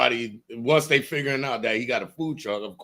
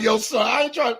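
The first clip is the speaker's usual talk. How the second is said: higher-pitched mock Philly accent; 8 semitones higher than usual. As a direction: put on a Philly accent, playful. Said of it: "I'm a step my Philly accent".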